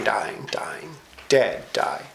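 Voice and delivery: whispered repeat; a hushed whispered echo. Acted. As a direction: breathe the words out unvoiced. Echoes the verse in a hush.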